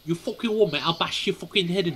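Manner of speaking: a hint of a rough Cockney threat; lightly played London hard man; mock Cockney mum. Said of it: "That's from me mum".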